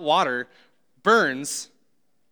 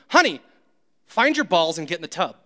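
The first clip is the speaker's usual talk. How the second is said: exasperated wife; 3 dB louder than usual. Retold or imitated. Wife fed up with husband stuck in the tub. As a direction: lose patience and tell him straight. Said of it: "She gets upset with me".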